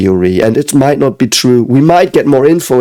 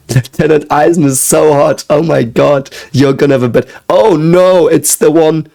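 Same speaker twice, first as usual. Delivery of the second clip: giddy higher rush of excitement; excited gushing; 5 semitones higher than usual. Real, not acted. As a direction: gush with rising excitement. Gushing over a character.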